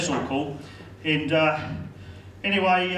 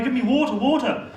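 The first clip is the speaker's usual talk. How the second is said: higher mock-desperate plea for water; desperate begging; 6 semitones higher than usual. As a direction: beg like a parched film character. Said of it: "looking for water in the desert".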